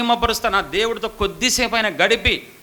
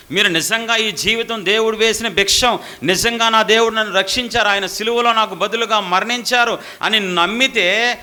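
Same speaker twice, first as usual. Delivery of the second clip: preaching. Acted. Preacher exhorts congregation loudly.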